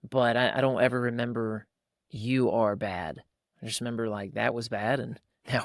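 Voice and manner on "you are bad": slow, deliberate "You are bad"; "You are bad" drawn out like a verdict; weighty pronouncement. Voices a labelling parent's verdict.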